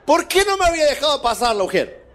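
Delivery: asked through laughter; laughing. Real, not acted. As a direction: chuckle through the question. Laughing at the usher's irony. (riendo mientras pregunta)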